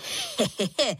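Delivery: short, light laugh; a quick pleased chuckle; a little laugh of delight; boyish laugh. A narrator's reading. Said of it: "Zasmál se".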